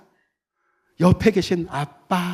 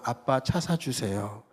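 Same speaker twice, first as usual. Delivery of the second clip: put-on childlike plea; 3 semitones lower, 7 dB quieter, slower than usual. Shown as a demonstration. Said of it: "이거 틀리잖아요".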